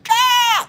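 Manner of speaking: high, loud imitated crowd scream; loud high-pitched shriek of a crowd. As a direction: squeal like a screaming fan. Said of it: "this screaming in the crowd".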